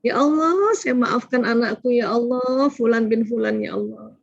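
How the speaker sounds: lifted, earnest supplication; prayer demo. Shown as a demonstration. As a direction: pray it aloud like a pleading parent.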